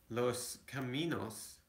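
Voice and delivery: Los caminos said the Spanish way, rolled and open vowels; los caminos en español; Spanish pronunciation. Shown as a demonstration. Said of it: "uh, the road".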